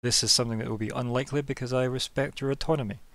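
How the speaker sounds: a hint of a measured, authoritative officer; lightly voiced commander. Commander setting terms to a new recruit, lightly authoritative. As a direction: lay down terms as a superior, lightly in character.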